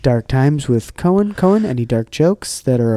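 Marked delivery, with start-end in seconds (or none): 0.0-1.3 announcer voice. Acted. Announcing a segment title.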